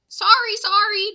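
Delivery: apologising to angry merchants; loud frantic apology; flustered sorry. Acted. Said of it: "Jack said".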